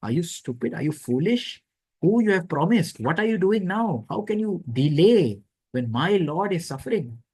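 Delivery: mild mock tirade at a lazy ally; furious scolding. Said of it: "He becomes so furious".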